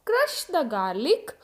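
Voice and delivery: crush the garlic said very slowly; slow model sentence. Shown as a demonstration. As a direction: drill it slowly for the class. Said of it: "example देखो". (धीरे-धीरे उच्चारण)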